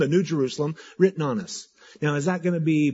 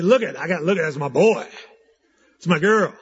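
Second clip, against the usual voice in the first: proud parent; 2 semitones higher, 5 dB louder than usual. Retold or imitated. Voicing a proud bumper-sticker parent.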